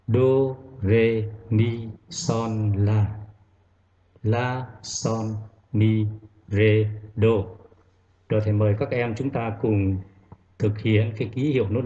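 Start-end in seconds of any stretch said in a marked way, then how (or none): 0.1-7.3 solfege drill. Shown as a demonstration. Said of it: "chúng ta đọc tên lên trước".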